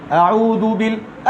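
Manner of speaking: very slow, starting from the low end of the scale; low starting pitch. Shown as a demonstration. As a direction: begin the note low and stretch it. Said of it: "scale নিচে থেকে।".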